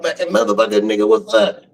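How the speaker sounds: gruff mock homie shout-out; rowdy friend. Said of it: "Nigga come up".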